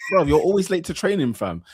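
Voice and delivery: lightly put-on Northwest London accent; imitated Harlesden slang. Host imitating Isak chatting to a teammate, mock London accent. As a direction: mimic a footballer's London street talk. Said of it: "He's talking like that".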